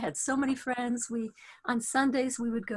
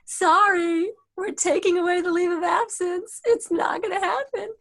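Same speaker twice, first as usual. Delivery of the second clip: put-on Southern accent, raised voice; 6 semitones higher, 7 dB louder than usual. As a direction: boss in a Southern accent, louder. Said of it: "she has a deep Southern accent".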